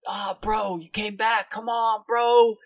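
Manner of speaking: high dude-bro exclamation, building loud; bro boss character. Acted. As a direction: cry out like a let-down gym bro. Bro guildmaster greets returned captive.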